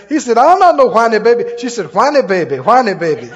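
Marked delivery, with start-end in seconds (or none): 0.4-1.4 loud, quick Cajun protest; Cajun accent. Retold or imitated. Man answering his wife's teasing, loud Cajun accent. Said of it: "In a good Cajun accent". 1.9-3.3 light Cajun teasing; Cajun accent. Retold or imitated. Wife repeating her taunt, light Cajun accent. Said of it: "In a good Cajun accent".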